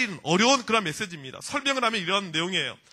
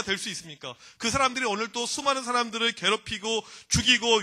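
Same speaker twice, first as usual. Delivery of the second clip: arguing complaint. Acted. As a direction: take God to task, pressing every point. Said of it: "따지듯이 지금 불평하고 질문하고 있습니다".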